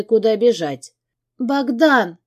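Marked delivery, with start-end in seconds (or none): 1.4-2.2 high panicked scream of a name; hysterical cry. A narrator's reading. Woman screaming her husband's name in hysterics. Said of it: "истеричный крик Ягодки".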